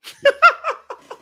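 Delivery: loud laugh at the absurd memory; big high laugh. Real, not acted. Laughing at his own story.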